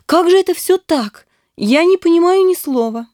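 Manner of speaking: high and baffled; a girl who cannot follow him; Nastenka, puzzled. A narrator's reading.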